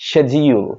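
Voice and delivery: 'schedule' as SHED-jee-ul; j sound in the middle of British 'schedule'; British pronunciation. Shown as a demonstration. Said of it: "ব্রিটিশরা এটাকে বলে".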